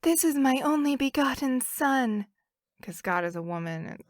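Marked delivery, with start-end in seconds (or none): 0.0-2.3 a hint of a woman's voice; man doing a woman's voice. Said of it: "That was your woman voice?".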